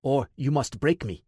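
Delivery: a light mock Drago, flat and heavy; deadpan mock Russian boxer; Ivan Drago impression. Ty mocking his captor, a light mock Drago voice. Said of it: "an impression of Ivan Drago".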